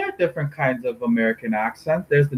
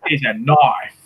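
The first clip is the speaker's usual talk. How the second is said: attempted Australian accent; Crocodile Dundee; slower than usual. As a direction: echo the quote in mock Australian. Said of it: "like Crocodile Dundee kind of Australian".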